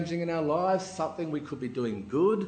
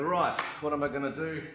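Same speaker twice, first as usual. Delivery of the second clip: quiet musing, trailing softer; thinking to himself; 7 dB quieter than usual. Acted. Samson sizing up the Philistine town, quietly musing. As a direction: think it through under your breath. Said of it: "he's walking and thinking".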